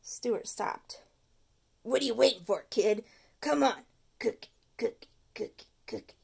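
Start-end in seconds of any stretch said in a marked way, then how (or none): 1.8-6.1 coaxing tooth. Acted. The tooth coaxing Stuart, chanting cookie. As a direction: lure him with cookie chants.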